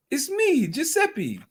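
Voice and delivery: put-on a high-pitched, half-hearted stab at a Welsh accent; jokey failed Welsh accent; attempted Welsh accent. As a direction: try a Welsh accent and miss it badly. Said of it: "I can't do a Welsh accent".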